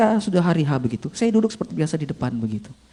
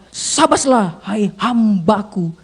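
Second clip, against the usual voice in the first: raised, drawn-out proclamation; God's commendation; 3 semitones higher, much slower than usual. Acted. God answering His faithful servant in the parable, drawn-out proclamation. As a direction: declare it slowly and grandly. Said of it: "Lalu Tuhan jawab apa".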